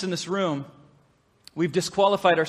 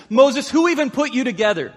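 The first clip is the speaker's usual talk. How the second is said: voice of God; 5 semitones higher than usual. Acted. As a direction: press the questions like a booming God. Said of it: "God says".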